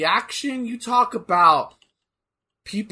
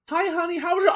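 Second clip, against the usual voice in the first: mother greeting; 10 semitones higher, faster than usual. Retold or imitated. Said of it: "you come home, mom greets".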